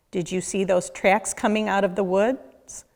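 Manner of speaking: ordinary delivery, nothing marked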